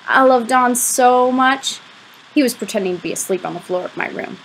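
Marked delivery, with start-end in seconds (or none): 0.1-1.8 slow, higher, lovesick gush; lovesick confession. A narrator's reading. Boy confessing his crush to his friend, lovesick. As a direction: confess it slowly, drawing out the love.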